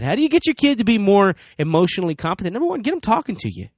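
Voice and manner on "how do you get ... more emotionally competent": ordinary talk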